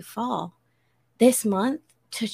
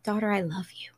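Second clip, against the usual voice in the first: hushed and loving, almost unvoiced; tender whisper; 5 dB quieter than usual. A father whispers love to his daughter, tenderly. God's tender words retold.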